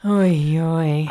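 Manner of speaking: trying out a Kiwi "oh no"; New Zealand accent. Retold or imitated. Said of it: "New Zealanders are more like".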